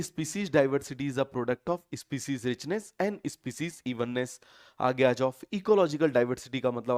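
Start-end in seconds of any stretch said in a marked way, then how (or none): 0.0-4.4 slow dictation. Shown as a demonstration. Teacher dictating a definition.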